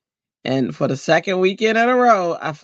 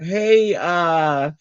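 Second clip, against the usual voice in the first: mock eager reply; 7 semitones higher than usual. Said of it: "And I was like".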